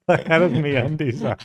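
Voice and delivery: mimicking Aussie accent. Reactor repeating the interviewee's line, amused Aussie accent. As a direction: echo the Aussie storyteller, laughing. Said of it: "It's just natural Australian to be a good storyteller".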